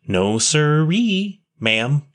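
drawn-out, slow and firmly stressed No, sirree; emphatic. Acted. Boy firmly tells the nun he has no home, slow and emphatic. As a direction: lean hard on each word of No, sirree. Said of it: "said Will emphatically".

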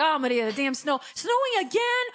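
high, loud wail of complaint; hammed-up mom griping, stretching the last words; imitating mom. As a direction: wail it like an exasperated mother. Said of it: "That's how she sounds".

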